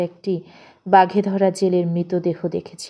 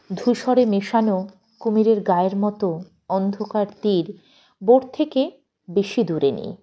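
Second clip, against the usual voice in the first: usual speaking voice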